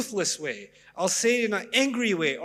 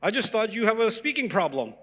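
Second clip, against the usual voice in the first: higher and louder, hammed-up disbelief; mock indignation; 4 semitones higher, 4 dB louder than usual. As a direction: play the outraged friend, mockingly. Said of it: "They're like".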